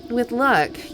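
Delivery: loud goat voice; gruff goat voice. Acted. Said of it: "I'm glad you like the goat voice".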